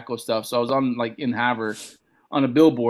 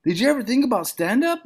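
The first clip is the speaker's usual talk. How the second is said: impersonating friend; 9 semitones higher than usual. Retold or imitated. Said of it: "He's like".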